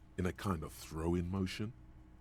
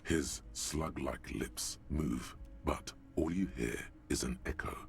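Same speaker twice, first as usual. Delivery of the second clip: eerie narration. A narrator's reading. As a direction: read it like a creeping nightmare. Narrates game text slowly.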